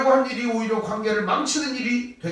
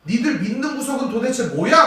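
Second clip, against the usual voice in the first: mild rebuke; 3 semitones higher, 4 dB louder than usual. Retold or imitated. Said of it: "이런 말이에요".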